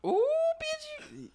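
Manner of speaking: high squealing donkey bray; donkey hee haw. Pretend. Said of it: "that's my donkey impression".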